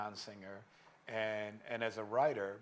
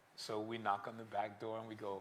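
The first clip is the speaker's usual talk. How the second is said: normal talking voice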